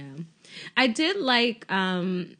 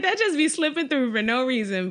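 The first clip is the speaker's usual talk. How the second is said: laughing quote; 3 semitones higher than usual. Retold or imitated. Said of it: "I was like".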